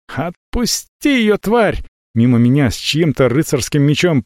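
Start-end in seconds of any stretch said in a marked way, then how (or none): 0.1-1.8 high, slow yell in an alien voice; strange-voiced scream. A narrator's reading. Talli screams at the dragon in a voice not her own. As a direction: scream like someone possessed. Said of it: "Талли закричала не своим голосом".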